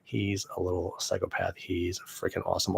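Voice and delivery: soft unvoiced whisper. Real, not acted. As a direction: whisper it as a joke. Whispered aside.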